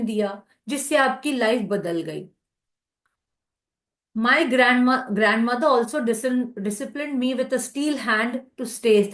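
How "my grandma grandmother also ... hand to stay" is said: slow reading aloud. Acted. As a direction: let the sentence unfold gently.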